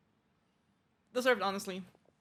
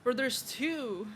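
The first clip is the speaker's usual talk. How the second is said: slow drawn-out amazement; slowly, as if seeing double; startled at a duplicate; slow surprise; 3 semitones higher, much slower than usual. Real, not acted. Noticing a second character.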